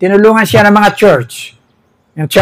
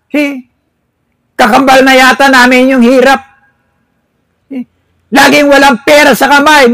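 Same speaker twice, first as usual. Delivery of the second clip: high, aggrieved lament; a poor member pleading her case; complaining churchgoer; 8 semitones higher, 3 dB louder than usual. Pretend. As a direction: moan about poverty to the pastor. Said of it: "Pastor, paano ka magagalak".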